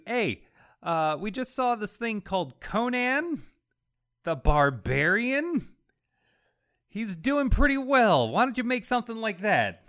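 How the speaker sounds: lightly played boss pushing an idea; eager commissioning boss. Boss handing a writer an assignment, mock eager. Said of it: "the person who gives you an assignment".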